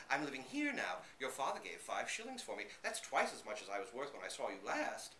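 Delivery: high, loud eager chatter; excited babble. Acted. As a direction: tumble out questions in joy. Dog babbles excitedly to Fred.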